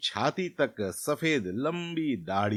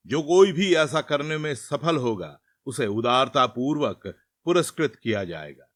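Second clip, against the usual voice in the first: a king's proclamation, somewhat louder; royal command; 4 dB louder than usual. Acted. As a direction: announce the order to the whole land. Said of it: "सींग से आदेश देते हुए कहा".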